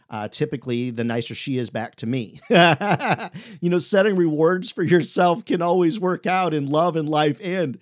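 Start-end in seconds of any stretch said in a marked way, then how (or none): 2.5-3.6 loud burst of laughter; hearty laugh. Real, not acted. Laughs at spouse joke. 3.6-7.8 laughing while talking. Real, not acted. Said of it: "All the married folks are laughing".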